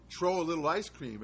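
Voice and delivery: "Tro" with a hard t, no th; dropping the th in "Tro"; neighborhood accent. Retold or imitated. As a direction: say "Tro" as the neighborhood does, t not th. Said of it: "as they say from my neighborhood".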